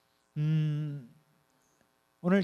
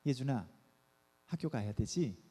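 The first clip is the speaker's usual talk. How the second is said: softly asking the son, a touch lower; a calm reminder rather than a yell; gentle call to a child; 5 semitones lower, 4 dB quieter than usual. Pretend. Parent calling son Yejun for school, gently. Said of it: "이러면 될 것을".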